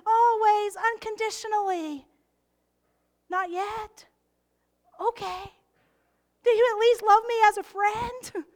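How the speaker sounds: lightly voiced Jesus asking gently; voicing Jesus. Jesus questioning a doubting believer, lightly voiced. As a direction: play Jesus, tender and a touch amused. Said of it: "hear your Savior say today".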